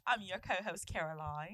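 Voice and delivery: lightly voiced British accent, low on the name; a hint of a posh British host; mock British podcast host; put-on British accent. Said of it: "I don't know why I've adopted this accent".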